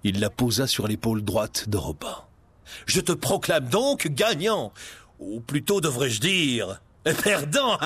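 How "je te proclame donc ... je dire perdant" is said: mocking. Prince mocks Robin.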